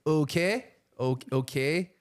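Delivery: imitated Canadian "okay" with a rising end; Canadian accent. Host imitating airport security guard, Canadian accent. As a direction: copy a Canadian "okay", lifted like a question. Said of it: "I heard the security guard say".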